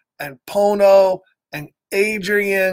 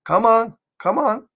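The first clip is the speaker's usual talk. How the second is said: cocky fish; 3 dB louder than usual. Retold or imitated. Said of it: "the fish are like".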